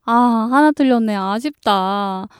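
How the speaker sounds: mildly acted disappointment, last word drawn out; mock regret. Student lamenting one wrong answer on a test, mock regret. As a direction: sigh out the regret, slowing and dropping at the end. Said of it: "이렇게 아쉬워하는 친구들".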